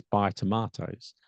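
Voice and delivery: "buy" and "tomatoes" both given full stress; stress on key words. Shown as a demonstration. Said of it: "Buy is important".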